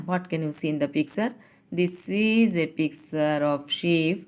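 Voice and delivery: slow, careful English for the class; slow teacher read-aloud; slow model reading. Shown as a demonstration. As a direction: spell it out slowly for learners. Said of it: "teacher models English question".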